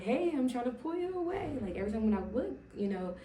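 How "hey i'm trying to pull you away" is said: raised, louder voice for God's warning; God's voice, lifted and louder; voicing God. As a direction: speak as God calling her away. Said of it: "God is like".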